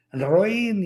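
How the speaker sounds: mock child's shout. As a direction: play a boy calling into a cave. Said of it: "grita algo". (grito fingido de niño, alargado y agudo)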